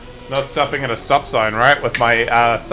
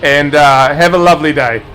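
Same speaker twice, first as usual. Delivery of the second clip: mildly stern cop; 3 dB louder than usual. Retold or imitated. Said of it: "the cop looks over and goes".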